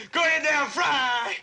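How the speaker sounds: gleeful battle shout. Acted. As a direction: shout it out while firing the gun. Gunner firing at enemy plane.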